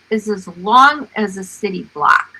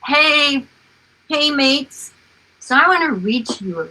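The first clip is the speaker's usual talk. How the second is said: mock yell down; 7 semitones higher than usual. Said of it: "yell down at us".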